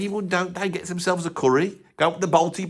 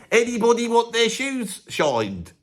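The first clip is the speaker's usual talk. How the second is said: higher, slower street call with teeth; redone shoeshine call; 6 semitones higher than usual. Shown as a demonstration. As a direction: call out to passers-by, slowly. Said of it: "I'll do that bit again".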